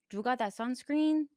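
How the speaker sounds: playful Hispanic accent. Shown as a demonstration. Asking an amigo for sunscreen, Hispanic accent. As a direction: ask it in a Hispanic cholo accent. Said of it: "Can you do a Hispanic one?".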